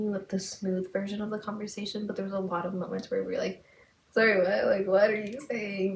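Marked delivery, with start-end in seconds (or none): 4.1-6.0 louder, mock-baffled questions; retold confusion. Girl who could barely understand the man, retold loud confusion. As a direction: act out being lost in conversation. Acting out not understanding him.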